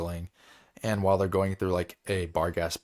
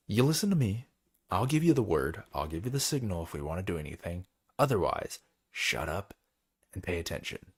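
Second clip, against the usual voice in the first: threatening. Retold or imitated. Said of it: "kinda, like, threatening him".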